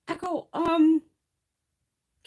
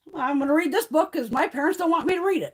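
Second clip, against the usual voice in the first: lightly voiced rebellious child, pitched up; defiant kid; 4 semitones higher than usual. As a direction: mimic a kid defying the parents. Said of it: "Those little fuckers are gonna be right on there going".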